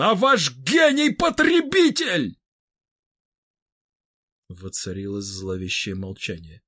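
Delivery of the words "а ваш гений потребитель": loud, high angry shout; yelling. Acted. Roman losing patience with Vybegallo, angry shout. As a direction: lose patience and yell it. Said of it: "заорал он".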